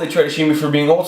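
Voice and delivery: ordinary talk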